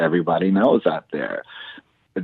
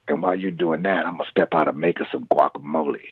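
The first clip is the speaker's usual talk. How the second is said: a rock singer's voice; 2 semitones lower, faster than usual. Retold or imitated. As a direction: toss it off easy like the rock singer. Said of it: "And that's how he talks".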